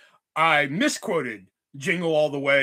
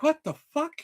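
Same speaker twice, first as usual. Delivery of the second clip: baffled what the fuck; 10 semitones higher than usual. Retold or imitated. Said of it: "I'm like".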